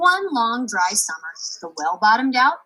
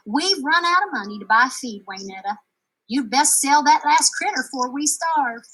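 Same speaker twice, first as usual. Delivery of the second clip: tired mother giving bad news; mild Texan ma, a bit louder; Ma's voice; 5 semitones higher, 6 dB louder than usual. Ma voiced in the story.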